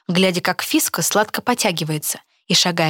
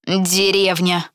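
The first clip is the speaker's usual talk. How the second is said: muttered insult; much slower than usual. Acted. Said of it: "пробормотала Фиса".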